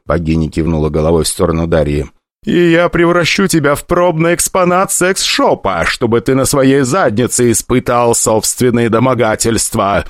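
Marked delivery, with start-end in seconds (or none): 2.5-10.1 menacing goddess. Acted. Goddess threatens the rich kid.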